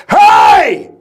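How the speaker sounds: huge bellowed shout from the gut; proper diaphragm shout. Shown as a demonstration. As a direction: bark it like a drill instructor from the diaphragm. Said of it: "I'm trying to show him how to do it".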